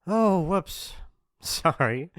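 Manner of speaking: high, loud fake whoops; mock apology. Bully who just elbowed the victim, mock-sorry. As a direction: apologize gleefully without meaning it.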